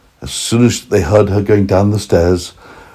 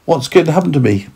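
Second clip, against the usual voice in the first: terrified carrot; 6 semitones higher than usual. Acted. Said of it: "terrified again".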